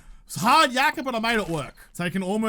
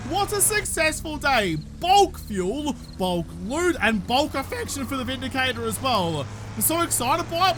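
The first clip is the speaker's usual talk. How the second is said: squeaky excited voice; 4 semitones higher than usual. Real, not acted. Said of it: "my voice is going squeaky".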